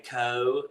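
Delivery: "co" with the L dropped off the end; East Kentucky pronunciation. Shown as a demonstration. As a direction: say "co" with a round vowel and no L. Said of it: "the East Kentucky accent".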